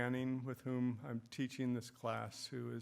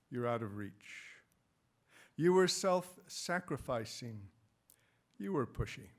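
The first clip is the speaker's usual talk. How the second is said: short phrases set apart by pauses; elegy reading. Acted. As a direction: recite each trait as its own line. Reads own elegy aloud.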